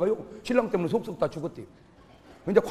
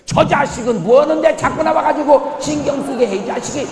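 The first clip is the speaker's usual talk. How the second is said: louder, higher angry snap at a rival; jealous outburst; 6 semitones higher, 8 dB louder than usual. Acted. Pastor fuming at the rival preacher, loud and angry. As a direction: spit out the insult in jealousy.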